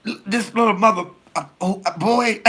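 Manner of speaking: mother caught cursing at school, high and flustered; mother catching herself. Retold or imitated. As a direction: swallow the swear and switch to boy. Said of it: "She said".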